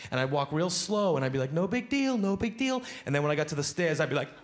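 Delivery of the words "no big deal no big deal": higher, tense no-big-deal; fake calm. Comic walks to stairs faking calm, mildly nervous. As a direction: pretend nothing's wrong. Feigning calm walking away.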